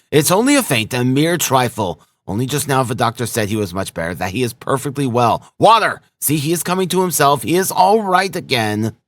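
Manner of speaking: high, excited, insistent reassurance; crying out reassurance. A narrator's reading. Razumihin to mother and sister over the fainted man, urgent cry. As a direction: call it out urgently, brushing off the alarm. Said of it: "he cried to the mother and sister".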